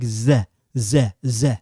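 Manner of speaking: buzzed "Z" said on its own, repeated; voiced Z sound. Shown as a demonstration. Teacher showing how the feminine ending sounds, isolated Z. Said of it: "like that".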